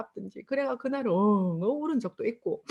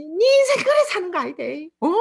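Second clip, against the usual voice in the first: louder, higher Busan dialect scolding; angry scolding; 9 semitones higher, 7 dB louder than usual. Retold or imitated. Angry customer swearing at her over missing change, loud. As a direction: tear into her over the phone. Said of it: "쌍욕을 해대는 거예요".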